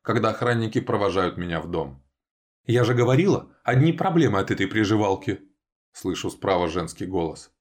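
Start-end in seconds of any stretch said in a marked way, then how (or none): 2.6-5.4 spiteful woman. A narrator's reading. Woman's voice from the side.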